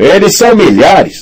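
very high, piercing, shrill shouting. Narrator reads someone behind Chet crying out: shouted. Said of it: "gritou alguém atrás de Chet".

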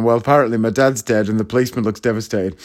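ordinary delivery

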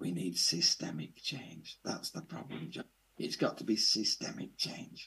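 hushed, soft, breathy, confiding whisper. Retelling what an old man said after a meeting: imitating someone whispering. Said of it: "he whispers, he says".

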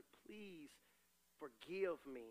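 put-on pleading voice through tears, crying. A father recalls asking his daughter, home from college, for forgiveness, retelling crying. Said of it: "i say baby i just i'm crying i say".

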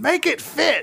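mock, very high-pitched, shrill yelling. Retelling a woman yelling at a guy in a furniture store, imitating someone yelling. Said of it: "She's like fucking yelling at this guy".

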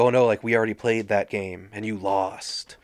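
menacing, threatening jeering taunt. Recapping a Scream scene where Billy taunts Sydney in the kitchen: mock-menacing Billy impression. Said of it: "all menacingly".

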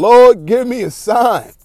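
very high, drawn-out, top-of-the-lungs shriek. Retelling running into the store as a kid: imitating own screaming. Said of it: "be screaming at the top of my lungs".

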